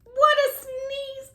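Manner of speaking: high, slow astonished exclaim; amazed exclaim. A narrator's reading. Narrator marveling at Robert's sneeze, slow and amazed. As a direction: draw it out in wonder.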